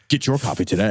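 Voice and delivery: lightly voiced low commercial announcer; mock ad voice. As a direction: sell it like a cheesy TV ad. Parodying Dianetics commercial.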